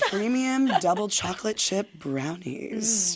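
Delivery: enticing, sultry, seductive delivery. After hearing how voice-acting direction works, speaker tries the brownie ad line, sultry voice. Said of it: "now act like more sultry".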